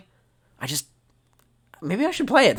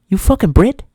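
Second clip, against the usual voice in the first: mock outrage; 3 semitones higher, 8 dB louder than usual. Mock anger at British viewer.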